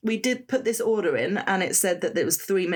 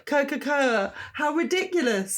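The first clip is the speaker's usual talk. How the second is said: amused; 8 semitones higher than usual. Real, not acted. Laughing retry.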